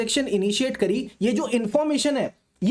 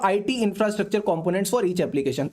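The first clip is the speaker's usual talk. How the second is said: restated slowly; much slower than usual. Shown as a demonstration. Restating point, less slowly.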